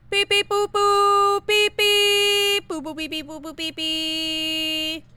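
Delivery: loud high robot beeps; toy robot voice. Pretend. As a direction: beep like a little toy robot. Imitating device beeping.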